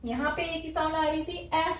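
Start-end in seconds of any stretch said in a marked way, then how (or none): 0.4-0.6 'ए' as open 'ae'; vowel demo. Shown as a demonstration. Teacher contrasts the earlier sound, open 'ae' for 'ए'. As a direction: sound out 'ए' as in the start of Africa. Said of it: "जो fifth वाली sound थी".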